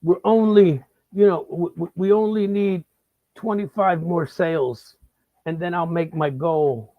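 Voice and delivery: put-on scout girl pleading. Girl on phone pushing sales, lightly voiced plea. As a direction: wheedle for the last sales. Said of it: "What she'll say is".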